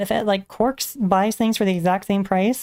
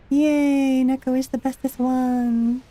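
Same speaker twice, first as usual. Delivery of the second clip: high, bright cheer for a favourite; cutesy cheer; 5 semitones higher, slower than usual. Acted. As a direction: squeal it like a proud fan. Cheering for her character Neko.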